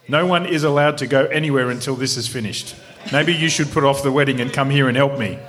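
lightly voiced captain, absent-minded then self-important. Captain brushing off a wedding invitation, lightly played self-importance. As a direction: put on a captain who matter-of-factly takes charge. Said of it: "Shall I do to the captain?".

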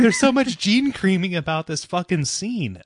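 words bubbling with laughter; laughing while ranting. Real, not acted. Still laughing after the joke.

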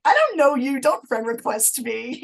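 high, loud comic protest; hammed-up annoyance; mock indignant. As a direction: act out being put out by a stranger. Acts out annoyance at friend requests.

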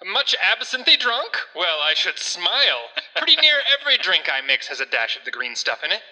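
lightly voiced old-timey barman; a touch of a cocky 1880s bartender. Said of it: "in your old-timiest of voices".

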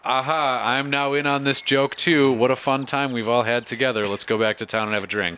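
put-on half-lost Austrian accent; a loose attempt at an Austrian accent; slipping Austrian accent. Hostage trying to join in the joke, slipping Austrian accent. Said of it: "I'm just slaughtering this fucking accent".

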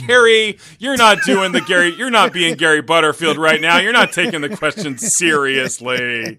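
teasing, loud scold; mock scolding. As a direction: playfully chew him out. Mock scolding his cohost.

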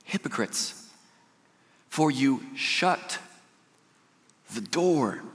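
starts high and slow, fades to a hushed "hypocrites"; solemn scripture rebuke. Retold or imitated. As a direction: pronounce woe gravely. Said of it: "He says".

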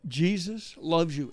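slow, deliberate declaration, understated passion; passionate. Retold or imitated. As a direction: retell his heartfelt words slowly. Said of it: "He said it with such passion".

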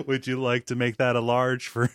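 cheery cashier voice laughing through it; lightly voiced fast food worker; upselling cashier.

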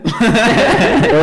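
high, loud put-on call; annoying roommate. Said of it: "Sugar's roommate also talked annoyingly".

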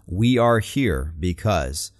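slow, measured We are here because; drawn out, deliberate; slow repetition. Shown as a demonstration. Echoing the speaker's repeated rally line, slow. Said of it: "we hear this repetition".

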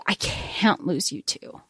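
soft, slow whispered grief; grieving whisper. Retold or imitated. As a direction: breathe it like a heartbroken boy. Voicing grieving Ty.

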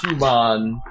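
"Human" with a drawn-out "hyoo-MON"; character-voice pronunciation. Acted. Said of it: "calling you guys humans and stuff".

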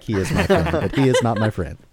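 mock protest while laughing; laughing through a quote. A husband retelling his wife's joking denial while laughing. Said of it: "my accent may sound like".

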